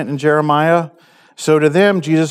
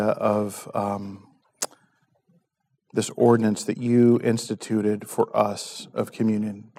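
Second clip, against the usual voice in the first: hushed, earnest prayer to God; 3 semitones lower than usual. Real, not acted. Pastor prays before communion.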